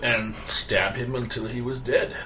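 proud knight, booming and eager; hammy hero voice. Acted. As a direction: play him as a boastful hero. GM voices a heroic NPC.

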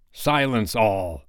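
slow, drawn-out pirate gloat, lightly voiced; gloating call. Hook hushing all for Wendy's farewell, mildly gloating. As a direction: draw it out with a touch of gloating. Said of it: "he called gloatingly".

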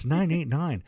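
light put-on sportscaster voice; clipped fake announcer numbers; Howard Cosell voice. Shown as a demonstration. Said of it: "Hear that fake voice?".

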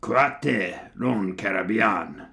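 slow German accent that comes out rather Spanish; mock German accent with open "ah" vowels; attempted German accent. Shown as a demonstration. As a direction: put on a drawn-out German accent, badly. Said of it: "pronunciate it in a German accent".

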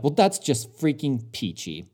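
dry, slow sarcasm on "freaking peachy"; sarcastic. Retold or imitated. Grumbling to his wife about the missing side rail, sarcastic. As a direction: drawl it out with mock cheer. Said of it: "Not to him".

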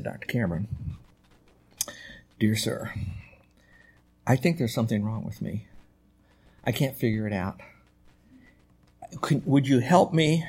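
soft, halting plea with long pauses; timidly approach a revered teacher; shy student. Retold or imitated. Shy student asking his professor for help, soft and hesitant. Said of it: "one of those kids that was really very shy".

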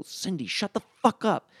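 slow, high mock bellow; imitated angry yell. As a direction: drag it out, an exasperated husband yelling. Stepdad overheard yelling at mom.

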